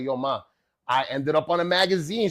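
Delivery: acting out excited news; lively, lifted hype; super hyped. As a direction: proudly tell Ma the big news. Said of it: "I was super hyped".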